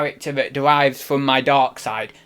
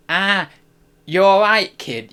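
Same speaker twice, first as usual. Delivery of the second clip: half-hearted attempt at a Liverpool accent; brief amateur Liverpool impression; 3 semitones higher than usual. Shown as a demonstration. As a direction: have a shaky go at Liverpool, dropping away on the last word. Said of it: "I try and do Liverpool now".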